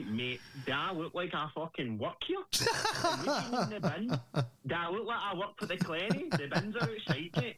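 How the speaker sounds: laughing, hammed-up rude retort; mock rude Glaswegian. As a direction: play a rude Glasgow worker, half-laughing. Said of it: "the guy would have turned around and said to me".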